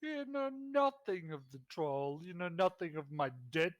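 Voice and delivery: haughty lord. Acted. The lord scorns the party's debt demand, haughty and dismissive. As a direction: dismiss them like a rich noble. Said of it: "Lord Basilva looks at you and goes".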